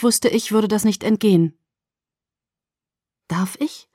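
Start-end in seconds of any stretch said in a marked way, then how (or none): 3.3-3.9 whispered. Acted. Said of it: "fragte ich".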